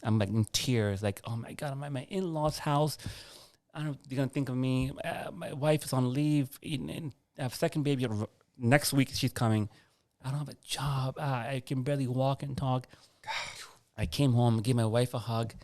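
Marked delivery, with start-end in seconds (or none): 1.2-12.9 higher-pitched, mildly distraught retelling; retold tearful distress. Husband fretting on the drive home, mildly tearful. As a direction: replay a tearful worry without really crying. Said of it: "and I'm crying".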